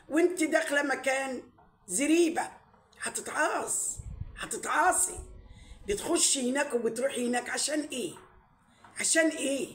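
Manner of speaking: rising scold. Real, not acted. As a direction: lecture her, voice climbing.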